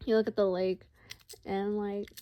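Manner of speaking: talking while chewing popcorn; munching popcorn. Real, not acted. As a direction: speak around a mouthful of food. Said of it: "sorry, I'm eating popcorn".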